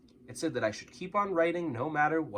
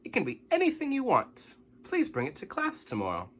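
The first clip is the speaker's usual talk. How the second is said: teacher announcing; 9 semitones higher than usual. A narrator's reading. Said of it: "she announced".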